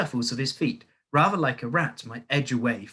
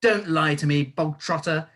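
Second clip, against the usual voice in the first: louder barked rebuke; barked warning; 5 semitones higher, 6 dB louder than usual. A narrator's reading. Headmistress scolding boy, a loud bark. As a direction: bark him down. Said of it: "barked the Trunchbull".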